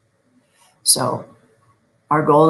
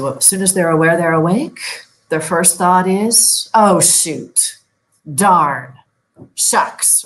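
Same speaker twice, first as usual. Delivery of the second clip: frustrated grumble; 4 dB louder than usual. Retold or imitated. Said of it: "But most of my folks say".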